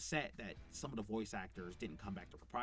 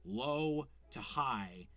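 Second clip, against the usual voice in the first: low to high; much slower than usual. Shown as a demonstration. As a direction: pitch climbing from low to high. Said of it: "she's able to do low to high".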